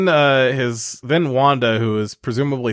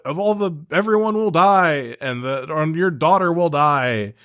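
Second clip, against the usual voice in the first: higher, lightly panicked pleading; mock desperate villain; 4 semitones higher than usual. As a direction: plead for your life, hammed-up. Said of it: "he's like".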